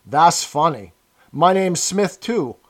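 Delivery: put-on rough, loud, boozy old woman; drunk old woman.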